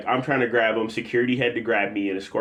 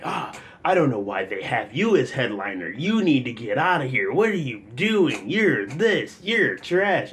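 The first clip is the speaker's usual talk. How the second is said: imitated heckler rant; 4 semitones higher than usual.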